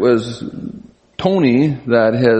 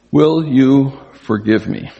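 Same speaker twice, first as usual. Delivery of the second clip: deliberate request; slower than usual. Shown as a demonstration. Models how to ask forgiveness.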